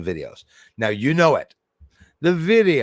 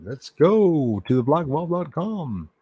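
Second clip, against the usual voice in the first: announcing the site; 6 semitones higher, slower than usual. Acted. Announcing website.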